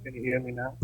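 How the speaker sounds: call dropping out. Real, not acted.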